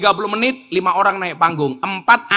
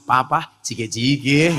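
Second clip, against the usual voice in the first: mock-tender; 5 semitones lower, slower than usual. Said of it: "katakan yang lembut di telinga suami".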